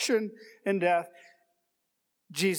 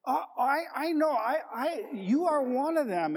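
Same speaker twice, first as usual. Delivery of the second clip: put-on servant girl; 6 semitones higher than usual. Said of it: "that little servant girl".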